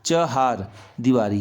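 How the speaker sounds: चहार with short cha, long haar; short first vowel. Shown as a demonstration. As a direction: slowly say चहार, stretching only the haar. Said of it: "ये शुद्ध शब्द है".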